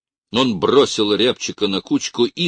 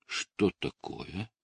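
much softer, slow; restrained; 10 dB quieter, slower than usual. A narrator's reading. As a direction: hold back the anger. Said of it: "сдержанно спросил Бураев".

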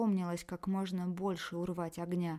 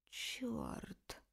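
soft whispered hiss of pain; hissed curse; 4 semitones higher, 8 dB quieter than usual. Acted. Alex cursing after a bitten lip, soft hiss. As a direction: hiss it through the hurt. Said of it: "прошипел Алекс".

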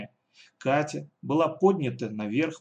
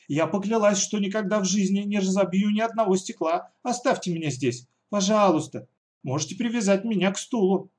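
put-on pleading girl; 7 semitones higher, 3 dB louder than usual.

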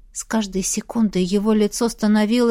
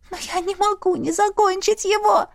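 trembling voice; 9 semitones higher than usual. Acted. Heroine refusing Irvin, trembling and high. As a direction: let the voice quiver, pitched up. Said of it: "голос дрожал".

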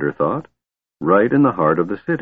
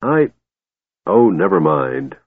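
grumbling. Acted. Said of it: "Flint grumbled".

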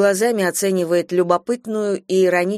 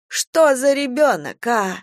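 scolding murmur; 6 semitones higher, slower than usual. Acted. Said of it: "приговаривает она".

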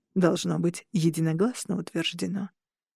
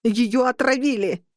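shouting; 3 semitones higher, 3 dB louder than usual. Acted. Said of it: "колдения закричала".

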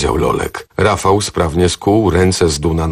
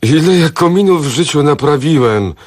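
louder, higher frantic protest; feverish outburst; 9 semitones higher, 4 dB louder than usual. A narrator's reading. The accused builder bursts out feverishly at his interrogator. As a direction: blurt it out in a panic. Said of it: "wybuchnął gorączkowo Zdun".

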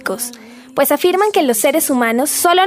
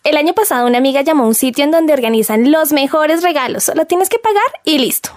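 helpful best friend role; 2 semitones higher than usual. Acted. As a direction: talk her friend into the idea. Friend role in acted skit. (amiga entusiasta que convence)

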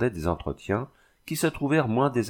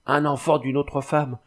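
higher-pitched cry of dread; narrated outcry of horror, pitched up; terrified, delirious cry; 5 semitones higher than usual. A narrator's reading. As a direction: cry it out as if raving with terror. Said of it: "elle cria dans un délire d'épouvante".

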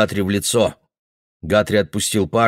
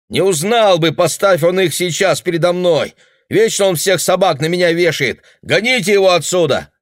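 high, loud, furious; angry yelling; 9 semitones higher, 4 dB louder than usual. Acted. Boy yelling at his parents, furious. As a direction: keep shouting him down.

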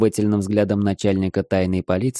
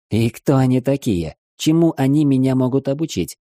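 smug; 6 semitones higher, 4 dB louder than usual. Acted. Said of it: "самодовольно спросил я".

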